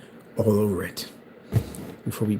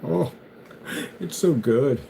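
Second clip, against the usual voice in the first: mock crying; much slower than usual. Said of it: "he starts crying".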